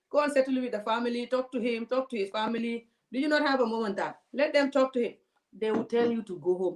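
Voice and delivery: mock patronizing lecture from a cop; patronizing policeman. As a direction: lecture her like a condescending officer. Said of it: "They say".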